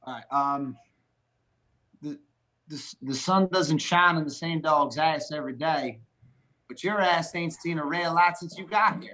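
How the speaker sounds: light Texas twang; Texas accent. Shown as a demonstration. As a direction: homespun saying in a Texas accent. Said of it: "I'll give you a Texas accent".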